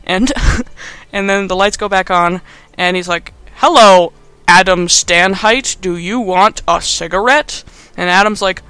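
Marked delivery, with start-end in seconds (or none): 3.6-7.6 slow, over-enunciated mock bad acting; mock stilted offer. Gordon offering Adam a cigarette, mock stilted. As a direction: lay the pretence on thick, word by word.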